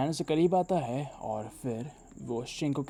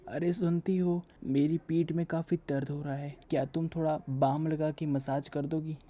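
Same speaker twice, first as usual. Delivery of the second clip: mock old man. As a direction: play a creaky old husband, only a hint. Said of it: "और वो acting करने लगता है". (हल्की-सी बूढ़े आदमी की नकल)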